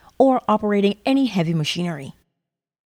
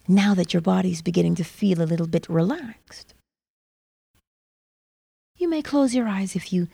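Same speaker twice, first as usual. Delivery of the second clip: guided meditation. Acted. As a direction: ease the listener into calm.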